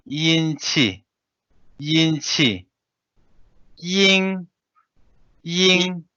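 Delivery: each Tibetan word said twice, high and careful; slow model reading, every word repeated. Shown as a demonstration. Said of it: "let me read once, with those spell out".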